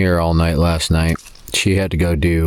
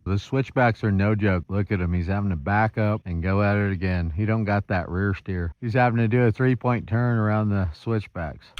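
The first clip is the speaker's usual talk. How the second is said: hushed, softer voice while watching; quiet commentary; 7 dB quieter than usual. Real, not acted. Watching truck from a distance.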